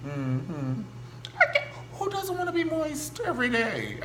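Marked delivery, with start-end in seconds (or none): 1.4-4.0 laughing. Real, not acted. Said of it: "laughing while joking".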